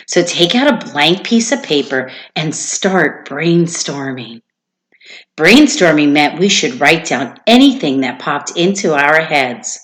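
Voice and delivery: lively storybook read-aloud to a class; reading a story aloud. Acted. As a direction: read it to the kids with expression. Teacher reads story to class.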